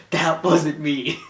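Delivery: put-on slow, lightly done New York Jewish accent; a hint of a New York Jewish accent. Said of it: "really easy to impersonate".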